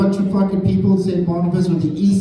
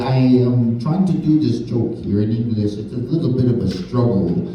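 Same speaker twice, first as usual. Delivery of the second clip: mock French-accented English. Comic imitates a French speaker doing his joke, light French accent. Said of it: "he'd be sounding like this".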